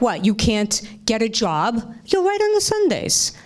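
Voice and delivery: Yiddish mother, pitch leaping up; yiddish accent. Retold or imitated. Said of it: "then she said something like".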